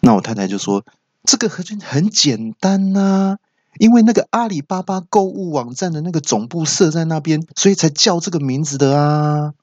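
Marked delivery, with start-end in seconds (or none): 1.2-9.5 high voice as the wife. Retold or imitated.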